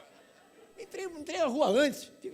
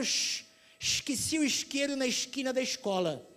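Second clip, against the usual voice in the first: put-on Rio accent with hissing sh sounds; carioca accent. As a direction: imitate the carioca, sh on every s. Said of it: "O carioca, ele fala". (sotaque carioca chiado)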